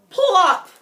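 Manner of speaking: high, loud plop; comic plop. A narrator's reading. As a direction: land it with a thump. Landing sound word.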